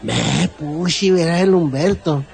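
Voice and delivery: local Baja California phrase. Shown as a demonstration. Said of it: "cuando decimos".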